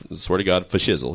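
imitating a rapper promising to hang out; the rapper's voice. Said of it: "And Snoop says".

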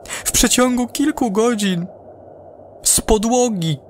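unraveling crewman begging to come home; panicked astronaut. Acted. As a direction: hysterical astronaut over the radio. Astronaut panics about apple trees.

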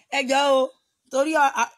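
loud pleading. Acted. Pleading in an acted scene.

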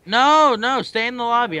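loud, fast command; raging gamer. Real, not acted. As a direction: bark the order quickly. Bossy order after losing.

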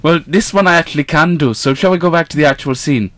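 sing-song it like a Welshman; Welsh accent. Acted. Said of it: "accent change to Welsh".

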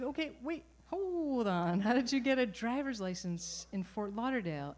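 can't believe what she just heard; disbelief. Retold or imitated. Speaker's disbelief at mother's news.

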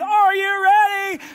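slow, high, loud "ready" stretched out; milk the suspense slowly; drawn-out host tease. Retold or imitated. Host asking again after the break, slow and stretched. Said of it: "They do it all over again".

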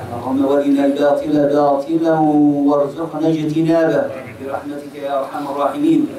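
low, measured Arabic prayer; closing supplication. Real, not acted. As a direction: recite a closing dua on a steady low note.

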